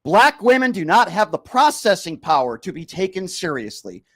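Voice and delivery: slow and deliberate, every word spelled out; speaking very slowly. Real, not acted. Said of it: "I'll speak very slowly".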